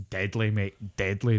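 put-on Falkirk accent. Shown as a demonstration. Showing co-host how Scottish accents differ, Falkirk accent. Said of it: "there's the Falkirk accent".

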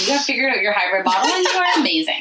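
high, gushing over-the-top praise; playful gushing praise; mock gushing praise. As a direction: lay on the praise for the kid. Praising Nolan mockingly.

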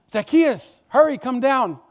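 Jesus calling up into the tree. Acted. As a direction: call him down from the branches.

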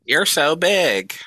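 high, slow mock moan; drawn-out breathy flattery; breathy high tease. Mock dirty talk.

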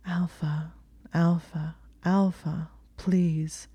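breathy begging, half-whispered; pleading whisper. A narrator's reading. Woman pleading with her Alpha in a whisper. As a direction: murmur his name over and over, dazed and pleading. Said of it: "she whispered".

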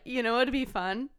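laughing. Retold or imitated. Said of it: "She's like".

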